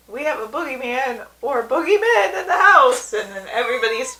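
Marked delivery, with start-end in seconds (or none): 0.1-3.1 high, loud comic alarm; retold cartoon panic; mock panic. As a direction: cry it out in hammed-up fright, laughter creeping in. Retelling Homer's panicked warning.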